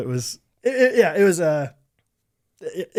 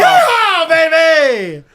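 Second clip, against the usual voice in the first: high, loud cowboy holler; yeehaw; 12 semitones higher, 9 dB louder, much slower than usual. Pretend. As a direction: whoop it out like a rodeo. Answering the cowboy whoop.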